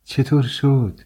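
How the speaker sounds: she can't wait for the answer, ask eagerly; eager excitement. A narrator's reading. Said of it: "با هیجان زیادی پرسید".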